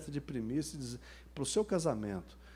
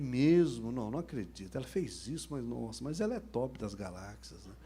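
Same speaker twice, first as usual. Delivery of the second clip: mock pity; 2 semitones lower than usual. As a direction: act sorry for him, voice dropping away. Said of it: "Eu fiz aquela cara de dó dele".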